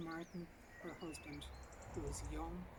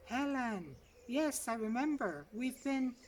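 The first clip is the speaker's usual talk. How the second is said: higher, careful receptionist reply; 7 semitones higher, 6 dB louder than usual. A narrator's reading. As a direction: answer warily, a bit higher. Receptionist replies.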